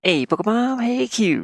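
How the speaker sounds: high, loud sing-song call. Real, not acted. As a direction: call them over in a bright high voice. Calls out to pets by name.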